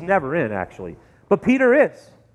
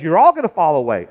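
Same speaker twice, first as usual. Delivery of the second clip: fast firm warning; 4 semitones lower, 4 dB louder, faster than usual. Acted. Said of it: "Jesus says".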